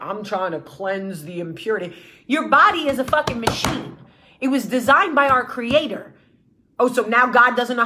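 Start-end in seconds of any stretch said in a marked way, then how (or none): 0.0-1.9 mock wellness guru. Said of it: "hiding behind the whole, like".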